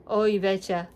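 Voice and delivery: imitated Minnesota and North Dakota accent; Minnesotan accent. Shown as a demonstration. Showing how relatives talk, Minnesotan accent. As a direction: put on a Minnesotan lilt. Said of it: "try to do this as I can".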